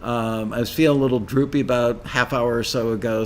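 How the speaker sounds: jittery, rushed over-caffeinated talk; too much caffeine. Real, not acted. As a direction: talk fast, wired on coffee. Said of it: "I'm uncomfortably wired on caffeine".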